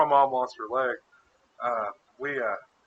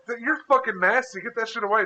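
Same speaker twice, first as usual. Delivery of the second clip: high-pitched, grossed-out scolding; retold disgust; 7 semitones higher than usual. Son ordering Tyler to take it away, mild mock revulsion. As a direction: recoil as you say it.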